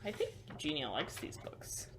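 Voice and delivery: soft secret whisper. Acted. Telling the kids a secret, whispered. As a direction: lean in and whisper it. Aside to children during reading.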